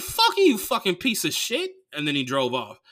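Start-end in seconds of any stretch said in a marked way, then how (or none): 0.0-1.7 high, loud screamed insult; furious yell. Retold or imitated. Cursing the man who said not to report, high furious yell. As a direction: scream it at him.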